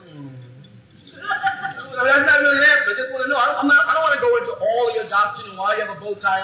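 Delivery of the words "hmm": mock hum. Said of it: "they go like this".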